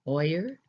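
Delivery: "Oyer" with an oi sound, oy-er; teacher models "Oyer" for learners; demonstrated word. Shown as a demonstration. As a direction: say "Oyer" like toy-er. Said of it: "those are eggs".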